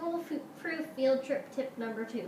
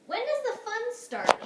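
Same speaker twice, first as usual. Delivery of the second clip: put-on higher, louder eager kid; impatient kid, pitched up high; eager child's question; 12 semitones higher, 5 dB louder than usual. Child asks eagerly in story.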